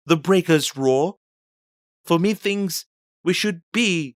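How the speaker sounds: high-pitched, uneasy crewman's voice; anxious sailor. Acted. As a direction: speak high, as if lost near rocks. Anxious sailor speaks in dark.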